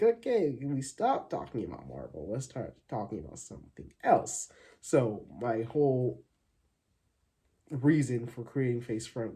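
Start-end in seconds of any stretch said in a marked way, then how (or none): 0.0-4.5 imitated exasperated relative. Family tired of hearing Marvel talk, mock exasperation. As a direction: imitate someone begging to change the subject. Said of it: "people were like".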